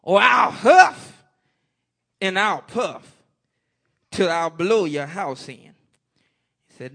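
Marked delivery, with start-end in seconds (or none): 0.0-5.7 wolf cry fading back to the preacher's voice; wolf's cry. Acted. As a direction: stretch out the threat as the wolf. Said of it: "cried the wolf".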